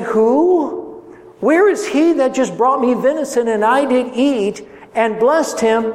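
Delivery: startled, demanding who it was; shocked old father. Acted. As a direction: blind father realising he was tricked. Isaac shocked at deception.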